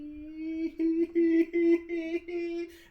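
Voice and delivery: high wavering ghost wail; eerie shrill wailing, pulsing as it goes; ghostly wail. Acted. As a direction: let out a long, loud, quavering high cry. Ghost's cry as it appears.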